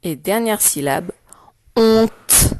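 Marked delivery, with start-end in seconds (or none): 1.8-2.5 HONTE projected, crisp final t; dictation. Shown as a demonstration. Teacher dictating the last syllable to pupils, dictation voice. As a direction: dictate HONTE as one held, isolated syllable. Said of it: "Je vais te dicter les syllabes".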